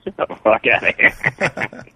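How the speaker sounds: talking with nose pinched; holding nose. Real, not acted. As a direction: pinch your nose shut while talking. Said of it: "I'm holding my nose".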